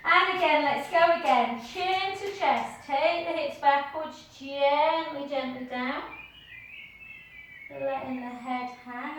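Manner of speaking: soothing yoga teacher voice; yoga cueing. Acted. Slow calm yoga cueing.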